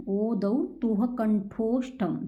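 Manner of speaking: slow rule recital. Shown as a demonstration. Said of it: "teacher slows rule for pupils".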